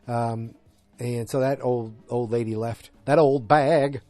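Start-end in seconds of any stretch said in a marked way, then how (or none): 3.0-4.0 louder, punched-up quoted insult; Seinfeld line. Acted. Host borrowing a Seinfeld insult, said loud and emphatic. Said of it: "that's from Seinfeld, that's not me".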